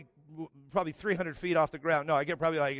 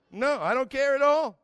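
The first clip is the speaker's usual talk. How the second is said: mock-cold mom; 8 semitones higher, 6 dB louder than usual. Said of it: "mom voiced in story".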